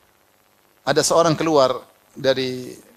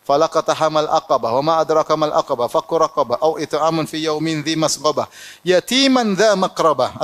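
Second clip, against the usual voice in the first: Quran recitation. Acted. (lantunan ayat Quran yang pelan dan panjang)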